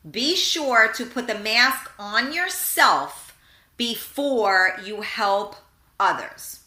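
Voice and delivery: slow, measured airline safety spiel; flight attendant safety announcement. Retold or imitated. Host mimicking the airline safety speech, slow and measured. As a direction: recite it like a cabin crew announcement. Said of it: "what do they say?".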